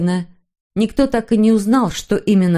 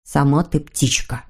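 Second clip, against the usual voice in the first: scornful, lower-pitched retort; contemptuous; 4 semitones lower than usual. Acted. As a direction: dismiss it with disdain, pitched down. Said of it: "презрительно отозвался Снорк". (презрительно, пониже)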